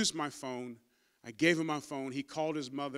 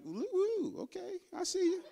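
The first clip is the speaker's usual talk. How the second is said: emotional laugh-cry. Real, not acted. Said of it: "I get emotional".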